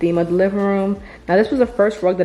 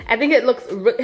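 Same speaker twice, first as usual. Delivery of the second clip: laughing; 4 semitones higher than usual. Real, not acted.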